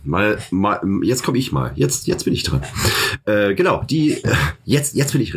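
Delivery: can't wait to start talking; jittery. Real, not acted. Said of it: "ich bin total hibbelig".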